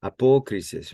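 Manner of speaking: checking the accent, apokrisis stressed on "po"; stress on accented syllable. Shown as a demonstration. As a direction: punch the "po" in apokrisis. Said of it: "Let me check that to make sure".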